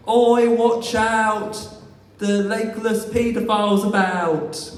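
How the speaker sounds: mock playground heckle, loud and drawn out; kids shouting. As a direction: jeer across the playground like a schoolkid. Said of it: "I can imagine them going".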